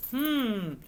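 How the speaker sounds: slow, put-on farmer voice; drawn-out, deliberating question; pondering farmer. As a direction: think it over, then ask slowly.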